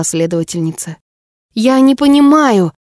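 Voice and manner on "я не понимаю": desperate outburst. A narrator's reading. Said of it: "взорвалась отчаявшаяся Неверфелл".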